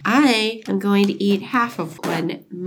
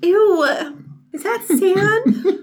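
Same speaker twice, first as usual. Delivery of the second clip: disgusted ew; 8 semitones higher, slower than usual. Real, not acted. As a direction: squeal in revulsion. Tasting the gritty cream.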